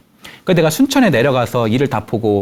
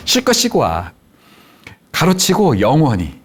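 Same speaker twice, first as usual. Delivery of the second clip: drawn-out mock send-off with a sting; imagined dismissal; 3 semitones higher than usual. Husband hearing wife banish him for good, mock dismissal. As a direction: act the message as husband misheard it. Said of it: "이렇게 들렸다는 거예요".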